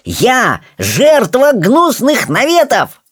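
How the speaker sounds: slow, high-pitched self-pity; milk it like a wronged martyr; theatrical exclamation. Acted. Rolla plays the slandered victim, slow high theatrical cry. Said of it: "обвёл всех театральным жестом".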